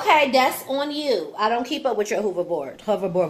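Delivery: loud, exasperated call; yelling across the room. Real, not acted. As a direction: fire it back across the room. Scolding kid across house.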